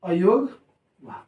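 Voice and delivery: "अयोगवाह" stretched out slowly, each syllable drawn, rising at the end; "अयोगवाह" said slowly and carefully, with a rising end. Shown as a demonstration. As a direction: spell the word out slowly for the class. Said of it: "क्या?".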